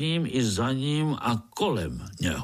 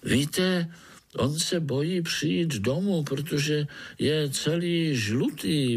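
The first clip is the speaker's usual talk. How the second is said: lightly voiced higher spider; little spider Pája; 6 semitones higher, slower than usual. Spider explaining to the overseer, gently higher voice. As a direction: explain timidly to the boss.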